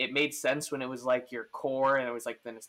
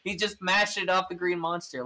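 mock fan amazement; 5 semitones higher, 3 dB louder than usual. Imitating fans watching a rival's home runs, mock-dismayed. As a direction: play the awestruck fan, pitched up and stretched. Continues the imagined fan commentary.

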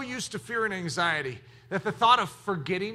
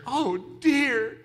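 bad-news interjection; 3 semitones higher than usual. Shown as a demonstration. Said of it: "Did you hear the bad news?".

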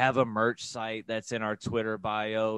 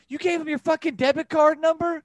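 father's much higher, louder outburst of disbelief; angry dad yell; 8 dB louder than usual. Retold or imitated. A dad shouting at his son about the debit card, high and loud. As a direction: yell it like a dad who just found out.

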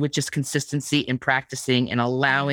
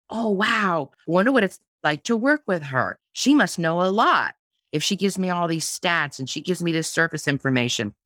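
impressed reader; 2 semitones higher than usual. Retold or imitated. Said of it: "you're gonna look at that information and go".

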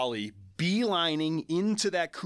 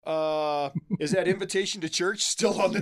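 cheeky glee; 3 semitones higher than usual. Retold or imitated. Flirty response to breakup news.

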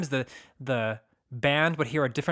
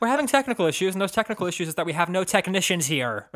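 higher, raised stage-announcer voice; mock show announcement; 5 semitones higher, 3 dB louder than usual. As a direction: announce the fault to an exasperated crowd. Acted announcement to the audience.

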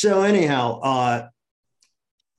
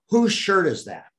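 urgent call out; 8 semitones higher, 4 dB louder than usual. Retold or imitated. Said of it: "and I said".

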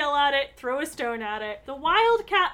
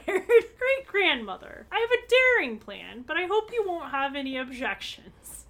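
hammed-up Nancy; 4 semitones higher, 4 dB louder than usual. Nancy's daring plan read aloud.

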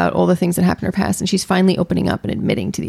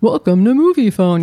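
louder, booming announcer voice; hammed-up movie hotline announcer; Moviefone announcer; 3 semitones higher, 4 dB louder than usual. Shown as a demonstration. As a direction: boom it like the old movie-line guy. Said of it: "You want me to do that one?".

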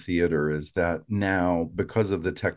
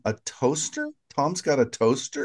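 retold surprise; 5 semitones higher than usual. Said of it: "and I went, I wrote down".

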